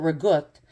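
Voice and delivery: "ragout" said as a Brooklyn Italian mother would; mother's Brooklyn pronunciation. Retold or imitated. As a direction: imitate mom's Brooklyn-Italian way of saying "ragout". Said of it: "my mother used to call it".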